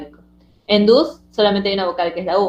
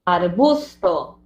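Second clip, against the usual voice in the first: "arbusto" drawn out so each syllable shows; slow example word; 2 semitones lower, much slower than usual. Shown as a demonstration. Teacher giving an example of mixed syllables, "arbusto" slowly sounded out. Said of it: "si yo digo".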